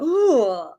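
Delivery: drawn-out ooh of discomfort; cringing "ooh". Retold or imitated. Reacting to people praising her accent, cringing groan. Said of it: "I cringe and I go".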